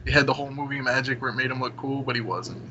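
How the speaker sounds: usual speaking voice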